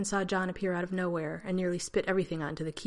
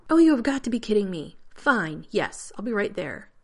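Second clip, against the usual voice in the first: can't believe this, then give in; exasperated disbelief; 3 semitones higher, 7 dB louder than usual. Acted. Rodney hearing Zelenka's bad news, loud exasperation fading to resignation.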